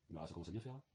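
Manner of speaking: put-on low, soft southern French accent. Fed up about polluted Brittany, in a playful southern French accent. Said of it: "j'aime bien l'accent du Sud".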